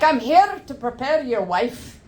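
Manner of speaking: put-on Scottish nurse accent. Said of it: "fetishized the Scottish accent".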